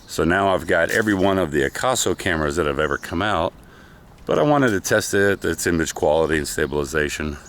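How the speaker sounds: slightly winded from running; out of breath. Real, not acted. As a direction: talk while catching breath. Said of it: "if I'm out of breath".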